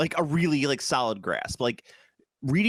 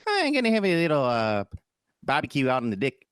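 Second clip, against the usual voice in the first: New Zealand accent. Shown as a demonstration. Host demonstrating the trick, New Zealand accent. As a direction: say deck as "dick" in New Zealand vowels. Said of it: "into my New Zealand accent".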